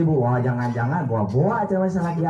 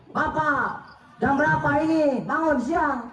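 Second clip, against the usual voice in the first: nagging wife; 6 semitones higher than usual. Retold or imitated. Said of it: "Udah tahu bangun tidur".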